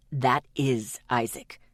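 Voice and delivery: low, slow hard retort; shot back. A narrator's reading. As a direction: fire it at her. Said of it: "he shot at me".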